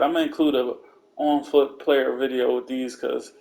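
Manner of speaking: ordinary delivery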